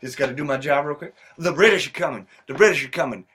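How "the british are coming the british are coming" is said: mock Revere proclamation, called out; town crier call. Paul Revere reenactor calling to the class, mock crier. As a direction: announce it to the room like a crier. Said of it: "Delivery Revere".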